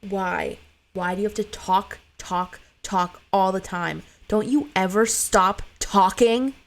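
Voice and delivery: put-on rising annoyance at a chattering child; irritated mother. Exhausted mother snapping at her talkative son, building irritation.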